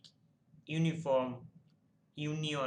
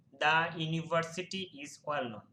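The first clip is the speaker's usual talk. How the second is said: slow dictation; 3 dB louder, much slower than usual. Shown as a demonstration. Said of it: "আ হয়, এন না হয়ে".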